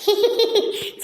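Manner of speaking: teasing giggle at someone's expense; short, mocking burst of giggles. Daughter laughs at mother's pot drawing, teasing giggle.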